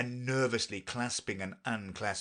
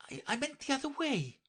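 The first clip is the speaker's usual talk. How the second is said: fast, flustered self-correction; hasty correction; faster than usual. A narrator's reading. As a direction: rush to take it back. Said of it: "she hastily corrected herself".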